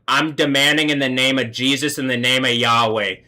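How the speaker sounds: commanding declaration in the name of Jesus; declaring affirmation. Real, not acted. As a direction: proclaim it like a prayer command. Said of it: "let me affirm".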